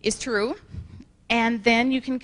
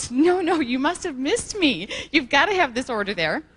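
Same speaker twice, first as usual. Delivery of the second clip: urgent pleading; 3 semitones higher than usual. Retold or imitated. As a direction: act out pleading with a departing driver. Chasing the delivery man, pleading.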